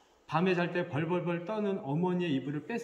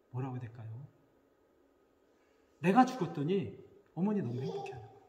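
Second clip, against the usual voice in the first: usual speaking voice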